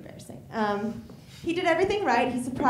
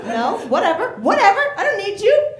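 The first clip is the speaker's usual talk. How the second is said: sulky cat brush-off; 10 semitones higher, 10 dB louder than usual. Acted. Cat voicing, sulky dismissal.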